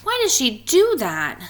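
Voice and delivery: whispered sad question. Acted. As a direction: breathe the words, puzzled and sad. Splat asks sadly, read aloud.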